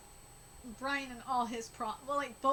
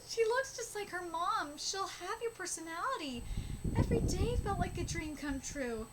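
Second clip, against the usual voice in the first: high, tearful reading; emotional, pitched-up read-aloud; about to cry; 6 semitones higher than usual. Real, not acted. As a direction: read on while fighting back tears. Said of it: "gonna cry".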